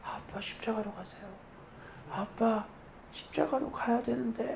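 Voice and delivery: put-on very soft, fearful child's voice.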